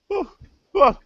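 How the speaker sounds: theatrical cooking-host voice; resume the lesson with affected composure; kooky cook character. Acted. Cook returns to the recipe, kooky voice. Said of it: "the way this girl's talking?".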